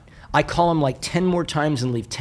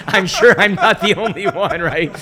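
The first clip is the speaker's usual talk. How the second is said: real laughter, higher and louder; laughing through it; 6 semitones higher, 4 dB louder than usual. Real, not acted. Speaker to the audience after the Putin joke, laughing. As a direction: chuckle out the line.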